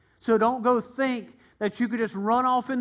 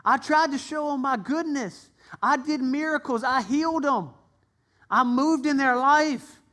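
higher, earnest and grieved; Jesus recounting his miracles to the towns; Jesus lamenting; 4 semitones higher than usual. Acted. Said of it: "He said".

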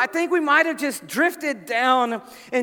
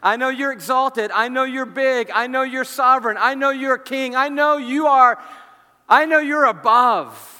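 raised, mounting declarations; fervent exaltation; 3 semitones higher, 6 dB louder than usual. Acted. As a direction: proclaim each line harder, building to a loud peak. Paul exalts the unknown Lord.

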